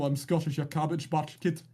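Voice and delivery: put-on a first rough go at a Scottish accent; tryout Scottish accent. Streamer trying a Scottish accent for chat, rough Scottish accent. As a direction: try out a Scottish accent, half-hearted. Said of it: "my tryout Scottish accent comes out".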